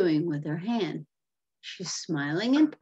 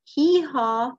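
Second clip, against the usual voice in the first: raised, loud mock bray; donkey bray; 6 semitones higher, 6 dB louder than usual. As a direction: voice a donkey's hee-haw. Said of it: "Glum says".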